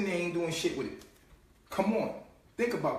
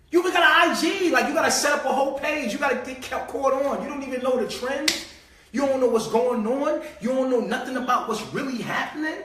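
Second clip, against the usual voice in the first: mock outrage; 5 semitones higher than usual. Ranting at someone with no IG, mock outraged. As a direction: pile on the scorn, half laughing. Mocking people without IG.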